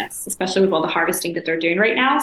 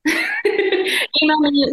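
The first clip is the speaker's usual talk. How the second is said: drawn-out sing-song plea; 8 semitones higher, much slower than usual. Shown as a demonstration. Repeats Email me laughing.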